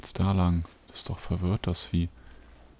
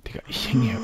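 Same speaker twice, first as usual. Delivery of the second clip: whispering; 3 semitones higher, faster than usual. Real, not acted. Whispering while hunting.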